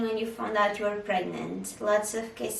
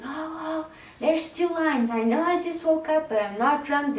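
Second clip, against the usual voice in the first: much higher and louder, thrilled shouting; excited husband; 7 semitones higher, 4 dB louder than usual. Retold or imitated. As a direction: imitate him yelling with joy about the two lines. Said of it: "he's, like, screaming and jumping".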